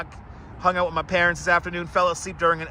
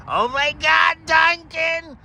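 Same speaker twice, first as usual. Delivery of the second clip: high, loud burst of delight for Dunkin'; excited gush; 11 semitones higher, 4 dB louder, much slower than usual. Real, not acted. Streamer gushing to chat about his favorite coffee, excited. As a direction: squeal the brand name like a fan.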